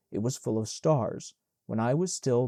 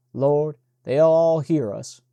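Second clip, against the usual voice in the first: put-on giddy drunken outburst; 8 dB louder, slower than usual. T P laughing drunk in cellar.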